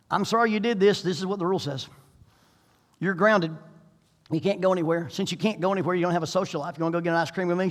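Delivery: mock-stern parent grounding his kid; stern dad voice. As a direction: play the strict but fair dad. Father voiced scolding teen.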